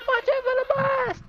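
high, loud cartoon warning; game announcer voice. Imitating the timer's warning.

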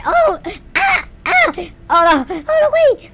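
high, loud cries of panic; panicked screams. Real, not acted. Player under zombie attack, yelping high and loud. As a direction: yelp as the hits land.

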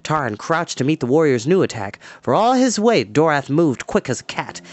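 steady storyteller reading an adventure aloud; story narration. A narrator's reading. Storyteller reading a battle chapter to kids, dramatic narration. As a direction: read the fight scene to the kids, building tension.

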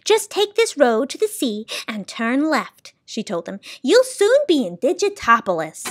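high, kindly directions; a hint of the high keeper voice; lightly voiced sound keeper. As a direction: point the way gently.

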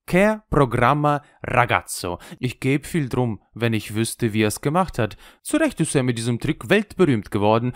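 lightly voiced wry old Italian showman; a worldly old juggler, amused and knowing; old trickster. Old trickster praises Jesus.

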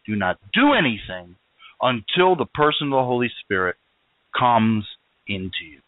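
firm orders in separate, deliberate phrases; emphatic command. Acted. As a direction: lay down "Do not" as a repeated order. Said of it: "and emphatically made clear".

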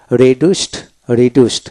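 রিডিউসড ending in a "t" sound, "ri-dust". Shown as a demonstration. Teacher showing learners the past form: রিডিউসড ending in "t". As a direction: turn the final ড of রিডিউসড into ট. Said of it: "দিতে ট উচ্চারিত হবে".

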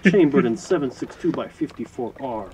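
mock Russian accent, announcer style. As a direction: present the rifle in a Russian accent. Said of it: "I'm gonna stop my Russian accent now".

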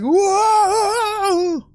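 high squeaky startled whoa; high yelp. Retold or imitated. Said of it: "He's like".

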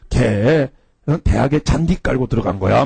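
low deadpan imitation of a teacher; lightly mocked earnest lecturing; mock-serious. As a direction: claim it gravely, as settled fact. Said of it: "이거를 굉장히 진지하게".

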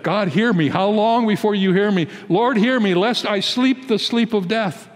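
a desperate man begging God not to let him die; pleading prayer. Acted. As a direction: beg the Lord to hear, raising the pitch. Preacher voices David's desperate prayer.

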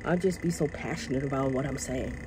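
sheepish, hushed apology; brought down. Real, not acted. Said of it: "bring it down some".

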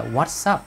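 "What's" said with a clear hissed s; "What's up" linked through a voiceless s; voiceless S ending. Shown as a demonstration. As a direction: show the s joining "What's" to "up". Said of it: "chữ S này phát âm là S".

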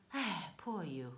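mock sympathy. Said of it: "不软不硬地说".

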